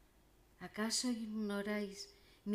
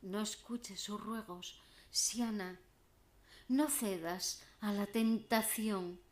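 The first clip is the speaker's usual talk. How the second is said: theatrical warning, building louder; crying out; 2 semitones higher, 5 dB louder than usual. Acted. Meadow creatures warning Siana against temptation, crying out. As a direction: call it out as an urgent plea. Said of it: "claman a voz en grito".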